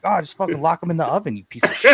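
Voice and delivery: high, loud, laughing taunt; mock taunt. To the friend, now a dad, mocking him with a laugh. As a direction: throw his old line back at him gleefully. Throwing the line back, laughing.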